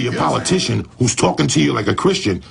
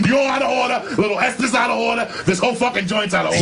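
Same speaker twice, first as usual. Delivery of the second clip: out of order rant; 6 semitones higher than usual. Retold or imitated. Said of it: "Al Pacino courtroom riff".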